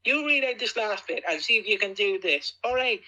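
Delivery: daring him to try it himself; excited challenge. Real, not acted.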